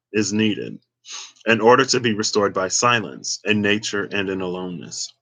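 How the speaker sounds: talking round a piece of gum; chewing gum. Real, not acted. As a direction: gum in the mouth while reading. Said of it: "let me take this gum out, 'cause it's tripping me up".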